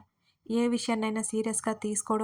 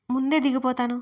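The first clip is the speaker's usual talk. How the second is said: shouting; 3 semitones higher, 4 dB louder than usual. Retold or imitated. Friend hears of her marriage meeting, she shouts eagerly. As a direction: call it out gleefully to the friend. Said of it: "గట్టిగా అరిచాను".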